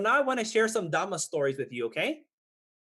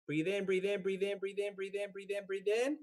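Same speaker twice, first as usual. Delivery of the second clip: fading breathe-in count; 2 semitones higher, 6 dB quieter than usual. Shown as a demonstration. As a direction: breathe in, growing much softer. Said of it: "Make sure you're breathing at the same time that I'm saying it".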